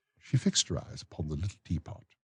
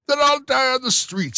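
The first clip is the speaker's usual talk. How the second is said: higher, louder put-on pauper voice; whining vagrant; 9 dB louder than usual. Bumble mimics the vagrant, higher and louder. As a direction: sneer out the vagrant's threat. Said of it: "says the vagrant".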